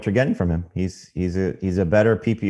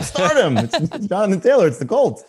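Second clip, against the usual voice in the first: higher, brash know-it-all voice; mock confident pundit; 9 semitones higher than usual. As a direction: play it up like it's obvious. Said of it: "it's not like".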